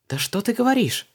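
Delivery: be truly astonished; genuine surprise. A narrator's reading. Luise amazed at Vanessa's story, surprised. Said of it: "всерьёз удивилась подруга".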